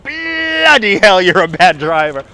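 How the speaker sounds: hammed-up British road rage; retold British cursing. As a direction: imitate yourself cursing out a driver. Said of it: "I cursed out a driver".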